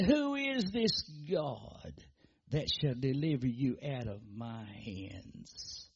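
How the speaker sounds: slow, sneering sarcastic taunt; mock him with sarcasm, slowly; sarcastic king. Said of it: "I can hear that sarcastic sound now".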